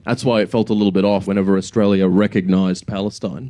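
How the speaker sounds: normal talking voice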